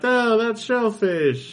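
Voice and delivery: very high, slow squeaky voice; squeaky toy character, drawn out; cartoon toy voice. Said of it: "And they're like".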